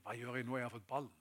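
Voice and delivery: soft, low self-talk fading away; worried thinking aloud. Retold or imitated. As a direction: think it to yourself, sinking almost to nothing. Young player thinking to himself. (lav, rådvill tankestemme)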